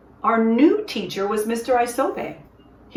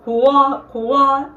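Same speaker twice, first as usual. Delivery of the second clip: a crow's call from the throat, higher and louder; 5 semitones higher, 5 dB louder than usual. A narrator's reading. Chibi calling like a crow from an old tree, throaty and loud. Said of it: "made very special deep sound, deep in his throat".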